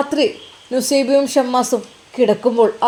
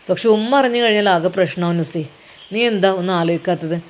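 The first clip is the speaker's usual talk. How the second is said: lightly voiced husband, lower than the narration; husband character; 5 semitones lower than usual. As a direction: explain your reservations to your wife in a lower voice.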